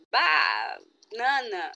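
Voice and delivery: put-on drawn-out, slow call of a child's answer; eager child shouting the answer. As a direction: blurt it out slowly like a proud little kid. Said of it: "Aí a criança já vai".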